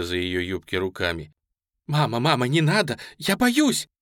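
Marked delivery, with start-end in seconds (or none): 1.9-3.9 put-on very high, loud child's scream; terrified child cry. A narrator's reading. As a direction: scream in terror to mother. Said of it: "кричала девочка". (испуганный детский крик)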